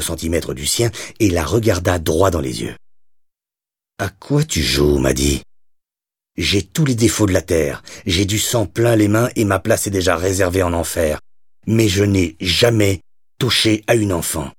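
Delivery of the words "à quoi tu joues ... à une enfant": menacing gangster. Acted. Doyle grabs her hair, threatens.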